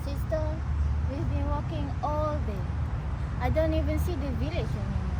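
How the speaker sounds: put-on high, soft young girl voice; a tired child lost in the woods; worried little sister.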